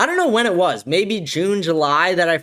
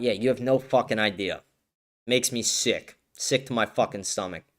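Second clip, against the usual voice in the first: quiet seething; 5 semitones lower, 6 dB quieter than usual. Real, not acted. Seething after viewer comment.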